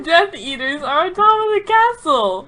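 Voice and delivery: high, loud, laughing through the words; laughing bleat. Acted. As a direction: bleat it out while cracking up. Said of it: "Ron bleated, quivering".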